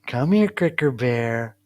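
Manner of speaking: slow, drawn-out pet-calling voice; sweet-talking the cat, unhurried; coaxing a pet. Real, not acted. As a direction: stretch the words to coax a cat.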